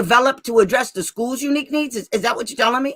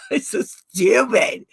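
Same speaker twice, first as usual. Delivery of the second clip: laughing; much slower than usual. Real, not acted. Laughing after the absurd exchange.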